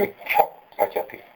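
वृक्ष पचति with a breathy lip puff for the visarga; half visarga. Shown as a demonstration. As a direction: soften the ending of वृक्ष into प. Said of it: "वृक्षः पचति नहीं बोल के". (आधा विसर्ग वाला उच्चारण)

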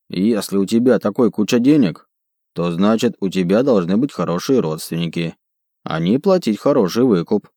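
scheming brute, halting grammar; broken Dwarvish. Acted. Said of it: "на ломаном языке гномов".

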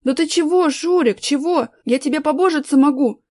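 high, loud whining plea; whining nasal plea. A narrator's reading. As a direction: whine it out through the nose. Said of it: "загнусил тот".

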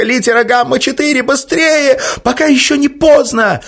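high, loud, urgent raising of the alarm; panicked high cry to the scientists; frantic alarm. Acted. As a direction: shout it out high as if life depends on it. Girl fakes infection, urges vaccination.

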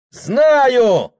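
high sharp yell; shout. A narrator's reading. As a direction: fling the answer at him. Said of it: "крикнул Прохор".

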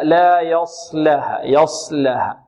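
slow لا يصلها, heavy sad with lips unrounded. Shown as a demonstration. Teacher modelling it for students, unrounded heavy sad. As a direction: draw out لا يصلها, no pursing on the sad. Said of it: "الصاد غير مضمومة".

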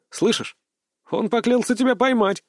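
high, sly grim voice; a dark smirk in the voice; grim smirking shinigami. A narrator's reading. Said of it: "мрачно ухмыльнувшись".

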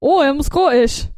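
half-hearted Scottish accent attempt; mock Scottish accent. Shown as a demonstration. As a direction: try a Scottish accent for a laugh. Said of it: "what about Scotland?".

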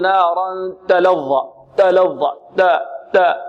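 تلظى with the ta hissed toward an s; wrong whispered ta. Shown as a demonstration. Teacher showing students the wrong hissed ta. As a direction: let the ta of تلظى leak an s sound. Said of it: "البعض يقول".

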